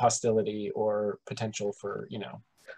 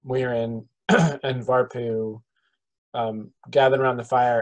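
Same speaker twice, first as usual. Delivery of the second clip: louder, slower scene setting by the fire; game master scene setting; 3 dB louder, slower than usual. Acted. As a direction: set the evening camp scene for the players. Game master sets the evening scene.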